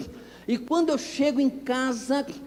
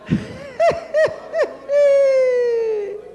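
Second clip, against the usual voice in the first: a high, hearty burst of laughter; loud laugh; 13 semitones higher, 4 dB louder than usual. Real, not acted. Pastor laughing at his own car story, big laugh.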